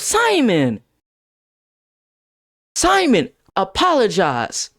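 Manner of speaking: lightly voiced teacher calling a pupil out; art teacher stepping in. Art teacher telling Simon to apologize, sternly.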